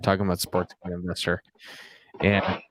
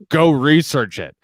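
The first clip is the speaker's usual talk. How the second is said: punchy, drawn-out, louder sign-off; cocky bat flip; 4 semitones higher, 6 dB louder than usual. Retold or imitated. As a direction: mimic an arrogant bat-flip line. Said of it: "she, like, bat flips it".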